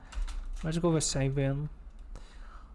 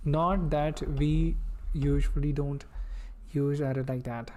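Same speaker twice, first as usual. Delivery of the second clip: put-on Indian accent. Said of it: "you're gonna learn the Indian accent".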